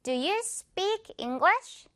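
slow beat-by-beat. Shown as a demonstration. Teacher conducts the rhythm while students follow the beat. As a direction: put every word on the conducted beat. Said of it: "지휘해주는 이 박자에 맞춰서 다시".

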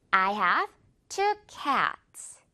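very slow "I have two cats", cats stretched to "ke-ats"; slow rubber-band demo; slow model sentence. Shown as a demonstration. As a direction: model it word by word with a long A in cats. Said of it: "복수로 한번 가볼게요".

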